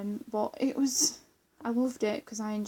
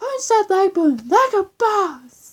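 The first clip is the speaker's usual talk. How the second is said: very loud, very high yell at full blast; 10 semitones higher, 15 dB louder than usual. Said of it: "let me say it again".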